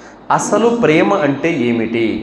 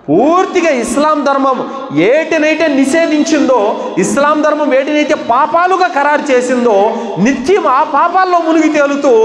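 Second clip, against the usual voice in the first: fiery preaching; 9 semitones higher than usual. Acted. Condemns sinful revellers, raised pitch.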